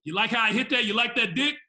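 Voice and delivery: loud, cocky taunting voice; hammed-up cocky boast to the girlfriend; mock bragging dude. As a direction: gloat over it like the guy who won. Mocking the winner's bragging to girl.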